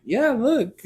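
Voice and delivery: playful parent talk; retold parent-to-toddler voice.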